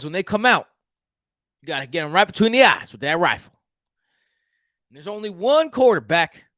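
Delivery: put-on Houston accent. Houston native announces the Texans draft pick in his Houston accent. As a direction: play a proud Houston Texan making the pick, with a Texas accent. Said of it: "This is my Houston accent".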